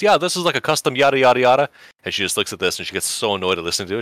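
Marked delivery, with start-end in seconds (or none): 0.0-1.7 higher, louder nerd rattling on; a nerd lecturing the bored girlfriend on his model; rambling nerd. Retold or imitated. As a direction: gush about his custom model. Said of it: "He goes".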